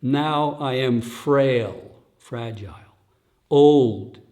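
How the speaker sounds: put-on slow, spent words of a frail old man; teacher slowly voicing the dying Buddha's lament. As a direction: drag each word out like failing strength. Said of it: "Gautama Buddha speaking about himself".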